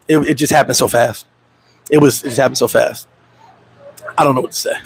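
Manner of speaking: low, droopy mock mourning; fake grief. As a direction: lay the fake sadness on softly. Fake grief text continued.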